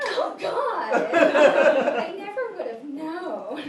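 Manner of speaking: lightly voiced flustered youngster; mock shocked compliment. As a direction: play the young person feigning disbelief. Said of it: "say something like".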